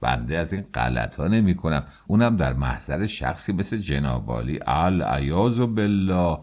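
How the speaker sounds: grovel to the official to avoid trouble; pleading. Acted. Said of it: "به التماس گفت".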